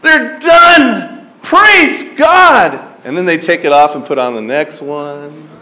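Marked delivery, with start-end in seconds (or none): 0.0-2.8 high, loud jubilant cheer; hammed-up joyful shout of relief; mock relief. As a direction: celebrate like the ordeal is over. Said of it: "and you're like".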